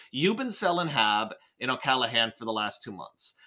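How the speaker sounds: lightly voiced Cockney accent; a hint of Cockney on the line. Podcaster testing whether the written line is Cockney, light Cockney. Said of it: "Oh, no, it is Cockney".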